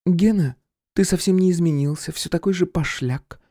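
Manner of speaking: voiced woman Irka. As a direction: sniff at his vulgarity. Irka comments.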